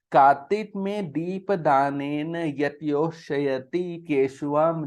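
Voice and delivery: slow, deliberate Sanskrit verse reading; slow scripture reading. Shown as a demonstration. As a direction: spell out each word of the shloka slowly. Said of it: "पढ़ो". (धीमा श्लोक पाठ)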